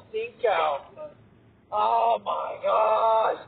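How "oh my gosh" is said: drawn-out disgusted groan of a phrase. Real, not acted. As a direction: recoil from the smell, slowly. Reacting to the stink.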